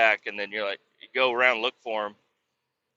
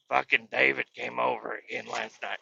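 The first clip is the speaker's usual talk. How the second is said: slightly softer grandma take; wrong grandma voice; 5 dB quieter than usual. Retold or imitated. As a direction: voice grandma lightly, near your own pitch. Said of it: "Grandma doesn't talk like that".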